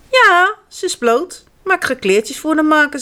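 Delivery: put-on a proud child defending her doll; Janneke voice. A narrator's reading. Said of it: "zegt Janneke". (hoger en langzaam meisjesstemmetje)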